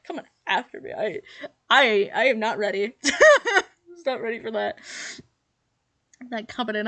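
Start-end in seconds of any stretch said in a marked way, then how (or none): 2.2-4.8 laughing. Real, not acted. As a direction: laugh through every word. Caught off guard by the roast.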